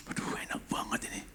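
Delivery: whispered relish at a food smell; very soft, voiceless aside; savouring whisper. Retold or imitated.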